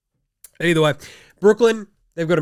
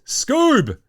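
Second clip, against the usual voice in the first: playful high nickname; 11 semitones higher, 5 dB louder than usual. Pretend.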